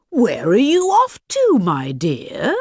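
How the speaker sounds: a hint of a sly wolf, sweet to lure her. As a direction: coax her, friendly but sly. Wolf greets the girl.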